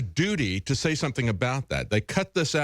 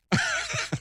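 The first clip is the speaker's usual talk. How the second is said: a sudden high real laugh; high burst of laughter. Real, not acted. Co-host laughing at the CNN reporter's M one claim, high burst.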